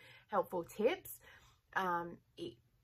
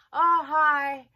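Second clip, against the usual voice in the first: much higher, louder bright "Oh, hi" of the neighbour lady; chirpy neighbour; 9 semitones higher, 15 dB louder than usual. Retold or imitated. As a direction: greet like an eager neighbour on the doorstep. Neighbour greets at the door.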